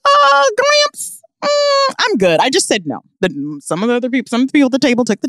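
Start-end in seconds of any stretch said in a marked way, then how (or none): 0.0-2.4 polite refusal. Retold or imitated. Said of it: "And I'm like".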